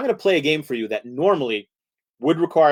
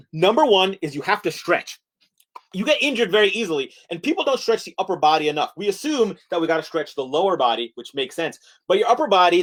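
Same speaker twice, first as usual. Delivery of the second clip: animated mini-lecture on dancing; lively presenter voice; mock lecture; 3 semitones higher than usual. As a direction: deliver it like an eager workshop presenter.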